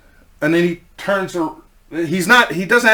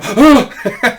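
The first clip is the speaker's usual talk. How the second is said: startled gasp; 7 semitones higher, 5 dB louder than usual. Retold or imitated. Sees kid with butcher knife.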